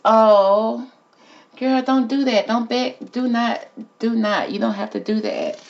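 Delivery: high, emotional plea; pleading. Real, not acted. Reader pleads with a singer over the card, high and emotional. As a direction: beg her not to beg, voice up high.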